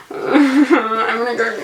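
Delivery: laughing through panic; nervous laugh. Real, not acted. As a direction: giggle it out nervously. Laughing before fleeing spider.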